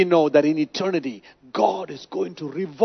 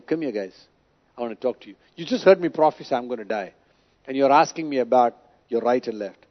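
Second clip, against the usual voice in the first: gentle rebuke; 6 semitones lower, 5 dB quieter, faster than usual. Acted. Jesus gently rebukes selfish disciples.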